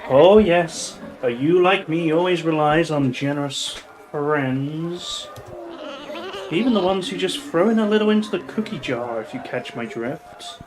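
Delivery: purring, knowing hint; sultry lady voice. Acted. Sultry bar lady hinting.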